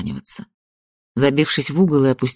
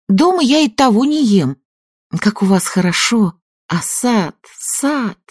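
gushing; 9 semitones higher, 3 dB louder than usual. A narrator's reading. Young woman gushing politely.

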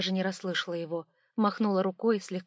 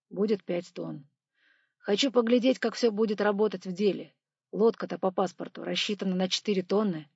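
engineer voice; 4 dB louder than usual. Acted. Engineer explains the load.

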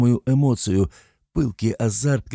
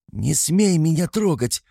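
frightened shout; 8 semitones higher, slower than usual. A narrator's reading. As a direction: scream at him to keep away. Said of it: "крикнула я". (испуганный крик)

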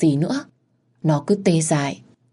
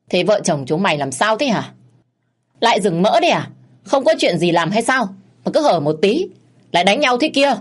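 1 scolding grumble; 4 semitones higher than usual. Acted. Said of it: "Ông bà Tư lầu bầu".

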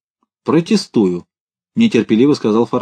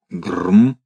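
satisfied grunt; 2 semitones lower than usual. A narrator's reading. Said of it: "удовлетворённо произнёс Лавр Федотович".

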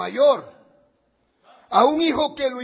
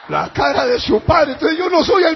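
deadpan retort; 5 semitones higher, 8 dB louder than usual. Retold or imitated. His comic retort.

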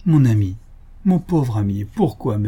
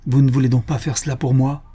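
almost vehement. Acted. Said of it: "d'un ton presque véhément".

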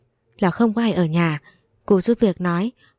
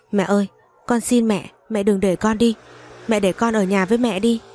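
tearful pleading; 3 semitones higher than usual. Acted. Little Bin begging his mother not to send him away, tearful plea. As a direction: beg through tears like a small boy. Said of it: "nhìn tôi van xin".

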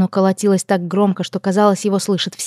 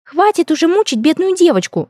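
pouting elf princess; 10 semitones higher than usual. Acted. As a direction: whine it high like a spoiled princess. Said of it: "не унималась эльфийка".

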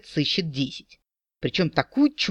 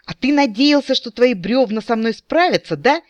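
hysterical shriek; 8 semitones higher, 4 dB louder than usual. Acted. Nolwende shrieks at the captain over the burning trees, hysterical. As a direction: shriek it, much higher and louder. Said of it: "истерично взвизгнула Нолвенде".

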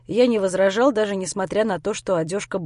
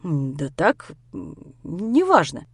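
evasive hedging; 4 semitones lower, slower than usual. Acted. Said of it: "пытался я как-нибудь отвертеться".

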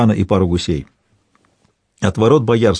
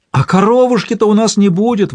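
wailing lament; 11 semitones higher than usual. A narrator's reading. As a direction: wail over the lost heifer. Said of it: "заголосила Марфутка".

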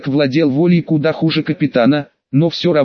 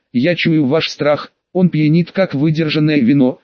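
metallic rasping whisper. Acted. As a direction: savour each word like a demon. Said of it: "с металлическим скрежетом прошептало чудовище".

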